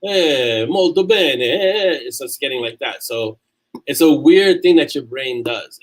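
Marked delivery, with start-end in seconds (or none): 0.0-2.0 light Italian-style exclamations, a touch higher; Italian accent. Shown as a demonstration. Showing viewers how he slips into Italian, lightly voiced Italian accent. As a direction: toss off a breezy Italian "molto bene". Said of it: "the hands start happening".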